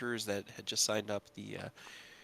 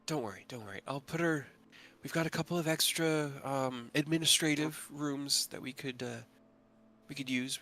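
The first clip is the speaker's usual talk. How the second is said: reassuring. Acted. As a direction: put her at ease gently. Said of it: "holds up a hand and goes".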